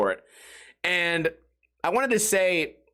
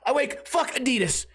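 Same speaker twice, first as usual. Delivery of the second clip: angry rant; 3 semitones higher than usual. Retold or imitated. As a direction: whine and rage like a hater. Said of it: "They think that I wake up every day and I go".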